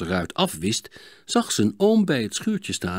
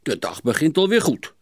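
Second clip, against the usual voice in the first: mildly sour grumble; grumbling; 5 semitones higher than usual. Acted. Sietse after the broken window, mildly grumbling. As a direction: grumble with a touch of irony. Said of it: "mopperde Sietse".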